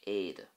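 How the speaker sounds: "éide" with a long, stressed "ay" up front; dominant e fada. Shown as a demonstration. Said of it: "pretty much dominates the word".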